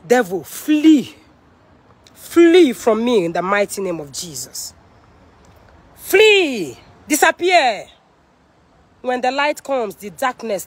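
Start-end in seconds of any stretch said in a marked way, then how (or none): 0.1-7.9 drawn-out commands to flee; commanding rebuke. Real, not acted. Streamer casting out the devil in Jesus' name, commanding rebuke. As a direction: order the devil out with force.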